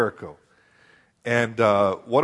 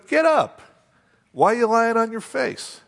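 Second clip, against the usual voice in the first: God commanding; 9 semitones higher than usual. Acted. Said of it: "God says to Joshua".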